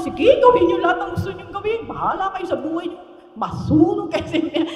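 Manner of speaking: careless dismissal. Retold or imitated. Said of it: "Napakadaling ang luwag".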